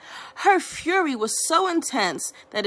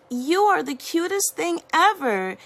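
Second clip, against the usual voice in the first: higher, gushing schoolgirl; excited exclaim; 5 semitones higher than usual. Acted. Girl in bathroom gushing at panda, mildly excited. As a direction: gush over the cute panda. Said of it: "exclaimed one of the girls".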